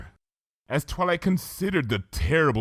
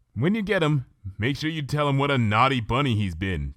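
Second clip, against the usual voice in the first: lightly teasing, a bit higher; playful Twilight; 4 semitones higher than usual. Acted. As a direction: smile as you give the advice. Twilight voiced in story.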